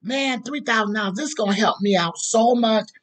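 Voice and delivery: overjoyed pastor thanking a donor; excited thanks. Retold or imitated. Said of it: "He jumps up".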